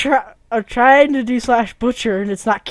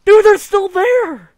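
loud exasperated; 7 semitones higher, 9 dB louder, slower than usual. Real, not acted. Cows survive the kill command.

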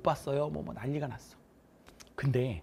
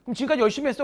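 emphatic teacher; 4 semitones higher, 5 dB louder than usual. Retold or imitated. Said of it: "내가 뭐라 그러냐면".

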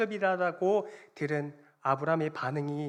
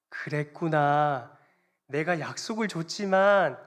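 slow, drawn-out understanding, growing louder; acted encouragement; 6 dB louder than usual. God answering complaining Abraham, slow acted encouragement. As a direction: console slowly, then urge patience more forcefully. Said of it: "격려의 말씀을".

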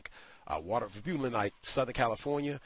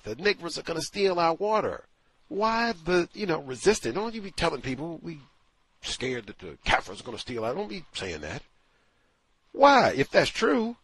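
louder, higher mocking rant; indignant rant; 7 semitones higher, 6 dB louder than usual. Real, not acted. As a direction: ridicule their denial with rising indignation. Indignant rant at their hypocrisy.

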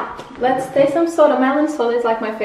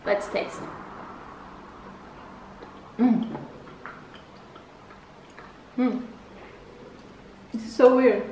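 chewing while talking; muffled mumbles between bites; mouth full of cookie; 5 dB quieter than usual. Real, not acted. Seen 0: Purple-top speaker bites small cookie, chews with closed mouth throughout.

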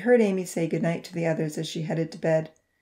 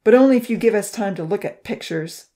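growling; 3 semitones higher, 8 dB louder than usual. A narrator's reading. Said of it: "Odin growled".

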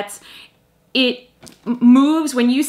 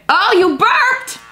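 delighted squeal; 11 semitones higher, 5 dB louder, slower than usual. Real, not acted. Delighted at the toy.

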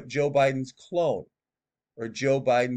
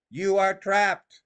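dramatic prophecy voice; 7 semitones higher, 4 dB louder, slower than usual. Retold or imitated. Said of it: "This is what she says".

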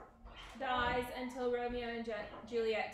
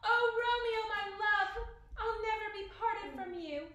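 high, loud melodramatic declaration; anguished lament; 9 semitones higher, 5 dB louder than usual. A narrator's reading. Juliet vowing to join dead Romeo, anguished lament. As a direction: wail it like a tragic heroine.

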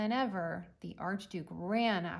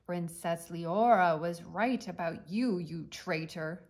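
roaring tyrant king; 6 dB louder than usual. Acted. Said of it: "the king thundered".

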